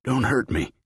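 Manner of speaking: put-on high, frail begging old man; frightened old man begging not to be hurt; terrified plea. A narrator's reading. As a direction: beg for your life in a high voice.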